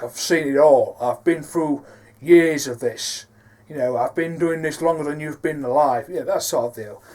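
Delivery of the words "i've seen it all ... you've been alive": Shown as a demonstration. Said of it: "a lot more authoritative".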